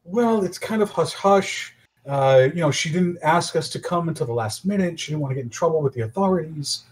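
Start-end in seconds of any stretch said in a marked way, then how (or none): 0.0-1.7 slow, drawn-out hush-hush; conspiratorial. Acted. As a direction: draw it out like a secret. Bard smooth-talking trolls.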